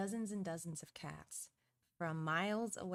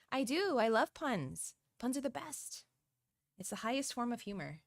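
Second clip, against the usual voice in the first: higher, delighted burst; gushing enthusiasm; 6 semitones higher, 8 dB louder than usual. Real, not acted. Streamer answering a viewer about loving puns, excited and high. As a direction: gush happily, pitch jumping up.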